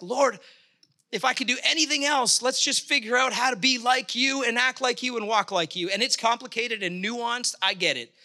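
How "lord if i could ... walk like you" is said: real impassioned prayer, pitched higher; passionate plea. Real, not acted. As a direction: plead earnestly with God. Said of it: "where this passion comes from".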